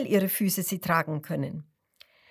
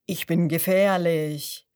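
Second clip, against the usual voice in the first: crocodile call; 3 semitones lower, 4 dB louder than usual. A narrator's reading. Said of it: "Das dritte ruft".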